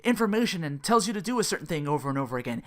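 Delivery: lightly mocking impression of a know-it-all; mocking quote. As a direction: mimic him lecturing. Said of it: "something along the lines of".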